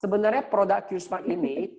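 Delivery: glitchy robotic call audio; half robot voice. Real, not acted. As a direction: voice breaking up like a robot. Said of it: "Suaranya kayak robot ngomongnya".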